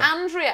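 Andrea as AN-dree-uh; trial pronunciation. Shown as a demonstration. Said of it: "How would they say it in Texas?".

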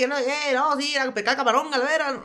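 mock jarocho coast speech; Veracruz coast accent. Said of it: "¿Y cómo es el acento de allá?".

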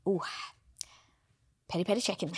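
soft, dreamy murmur; mock craving. Pregnant woman waking up craving Nando's, soft mock longing. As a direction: savour the food's name softly, played for laughs.

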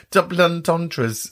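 slow mock French pronunciation; jokey slow French accent. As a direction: put on a French accent, drawing it out. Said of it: "in that very French accent".

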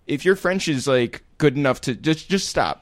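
high, impatient, fed-up pleading; exasperated Parisian. Retold or imitated. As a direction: brush off a struggling tourist. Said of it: "And they'd be like".

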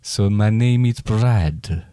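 slow, lightly voiced vampire introduction; a hint of a slow, grand vampire. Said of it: "Do your vampire voice".

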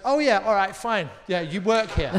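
imitating a manager giving in reluctantly; grudging manager. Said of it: "and she goes".

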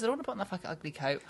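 quick, soft, throwaway retold refusal; casual, matter-of-fact child. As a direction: imitate a child swearing offhandedly. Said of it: "he was being so casual and matter of fact about it".

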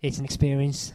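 bright, emphatic quote; quoted girl. Retold or imitated. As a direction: say it with feeling. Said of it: "the girl says".

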